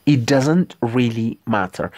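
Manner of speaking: hushed whispered practice line. Shown as a demonstration. Teacher repeats phrase in whisper.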